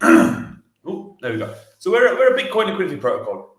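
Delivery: recovering breath, a bit winded. Real, not acted. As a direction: push through breathlessness. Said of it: "I'm just catching my breath".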